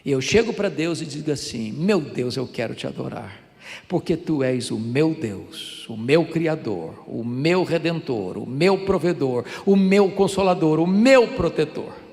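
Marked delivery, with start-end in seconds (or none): 1.7-12.1 fervent prayer building to a loud, ringing climax; prayer of worship. Acted. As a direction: pour out praise to God, swelling with each title. Pastor leads a prayer of worship.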